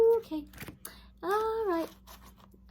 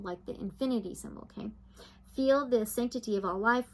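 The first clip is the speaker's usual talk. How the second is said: guided meditation; 2 semitones lower than usual. Acted. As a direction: read it like a soothing spiritual meditation.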